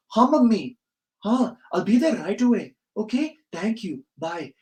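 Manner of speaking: put-on dutiful child on the phone in an Indian accent. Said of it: "like, an Indian accent".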